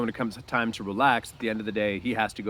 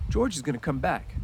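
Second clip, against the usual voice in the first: frightened; 6 semitones higher than usual. Acted. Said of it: "reassured himself in a frightened voice".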